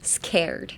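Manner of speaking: SCARED with a crisp k after the s. Shown as a demonstration. Teacher explaining the spelling, scared with a k sound. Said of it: "you pronounce it as a K".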